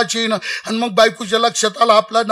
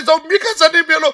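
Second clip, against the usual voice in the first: father's mock wailing; 5 semitones higher than usual. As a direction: wail like a grieving father, hammed up. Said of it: "बाप म्हणे".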